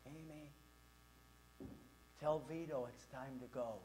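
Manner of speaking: very soft, low, distant call; hushed, gentle bedtime reminder; mother's upstairs voice. Retold or imitated. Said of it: "Pretty soon the voice would say".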